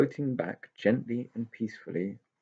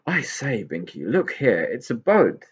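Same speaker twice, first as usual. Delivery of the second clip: louder, eager pixie; excited discovery; 2 semitones higher, 5 dB louder than usual. Acted. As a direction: announce the find eagerly. Pixie spots the boat.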